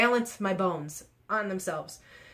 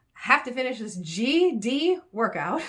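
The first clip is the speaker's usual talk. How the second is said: angry laughing; 4 semitones higher, 5 dB louder, slower than usual. Real, not acted. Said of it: "So I'm angry".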